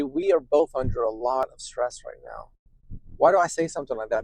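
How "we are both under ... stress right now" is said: spokojnie, łagodnie, by uspokoić żonę; calm reassurance. Shown as a demonstration.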